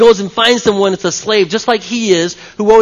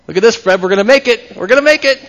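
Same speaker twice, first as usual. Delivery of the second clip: playful glee; 3 semitones higher, 4 dB louder, faster than usual. Real, not acted. Joking over collected pennies.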